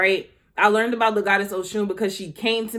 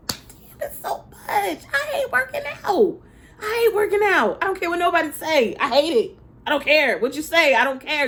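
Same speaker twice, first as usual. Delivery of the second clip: whiny complaint; 7 semitones higher than usual. Retold or imitated. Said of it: "I just be like".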